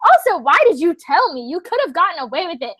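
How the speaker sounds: high, fast, indignant rant; retold yelling. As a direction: act out yelling from the kitchen. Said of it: "yelling and making the drink".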